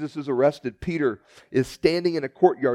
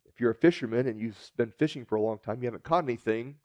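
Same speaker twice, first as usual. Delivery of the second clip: normal talking voice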